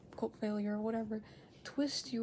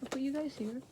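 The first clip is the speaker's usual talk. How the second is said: whisper; 2 semitones higher than usual. Real, not acted. Whispering while placing toys.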